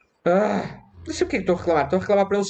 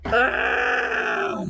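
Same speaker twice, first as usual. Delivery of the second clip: long low yell of dismay; scream. Real, not acted. Gamer yelling as the creeper blows him up, anguished.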